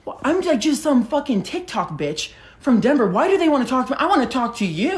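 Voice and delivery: high-pitched starstruck squeal, slowed on the insult; geeking out. Retold or imitated. Starstruck TikToker gushing to herself about meeting a DJ's team, high and excited. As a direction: gush like a fan who can't believe it. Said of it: "I'm geeking out".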